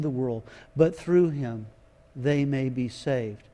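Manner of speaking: soft, low and tender scripture reading; quietly tender reading of John three sixteen; gentle voice of God. Shown as a demonstration. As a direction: let each word fall gently like a loving father. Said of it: "Listen to what He sounds with".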